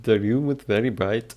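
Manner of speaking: attempted Scottish accent on a full sentence; careful Scottish accent reading; practising Scottish accent. Shown as a demonstration. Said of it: "How to do a Scottish accent".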